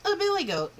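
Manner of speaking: spring the surprise; reveal. A narrator's reading.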